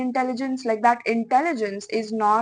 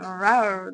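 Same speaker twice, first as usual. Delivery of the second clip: mock growl. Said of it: "make sounds and noises".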